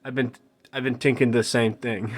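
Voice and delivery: light Jamaican gangster voice; Little Jacob agreeing in a light Jamaican accent. Acted. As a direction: lean lightly into Jamaican slang. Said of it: "'cause that's how he talks".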